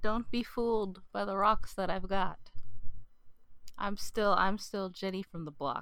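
reciting lyrics as a poem; deadpan dramatic reading; poem recitation. Pretend. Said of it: "a poem I'd like to".

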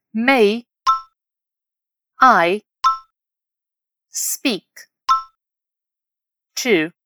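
"May", "I", "speak", "to", "mister", "Brown", "please" each isolated; word by word. Shown as a demonstration. Teacher having learners repeat after her, word by word. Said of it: "Repete depois de mim".

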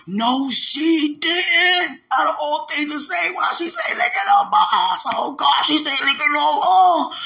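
high, loud, drawn-out hysterics; laughing in shock. Retold or imitated. Congregant reacting to the blunt testimony, laughing in shock. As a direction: shriek it through helpless mock laughter. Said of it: "I was laughing".

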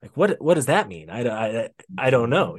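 put-on Italian accent. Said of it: "in his Italian voice".

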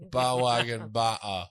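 mock English accent. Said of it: "without moving any of your lips".

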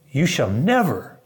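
acted-out adamant protest; emphatic refusal. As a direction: draw out each word, rising on the last. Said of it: "It's emphatic".

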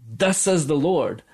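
mock-solemn prophet's decree; prophetic proclamation. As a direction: declare it like a self-certain prophet. Mock prophetic proclamation contrasted with humbler phrasing.

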